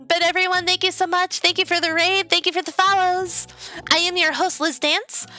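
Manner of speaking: cute anime streamer. Real, not acted. Streamer thanking chat.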